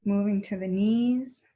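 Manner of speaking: even, unhurried body-scan voice; steady cues with long silences between them; guided meditation. Real, not acted. Teacher moving the class's attention up the legs, calm guided meditation.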